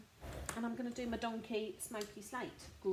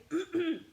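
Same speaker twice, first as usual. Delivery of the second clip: throat clearing; 7 semitones higher, 6 dB louder than usual. Real, not acted. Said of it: "That was a down the wrong way".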